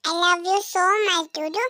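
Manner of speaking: usual speaking voice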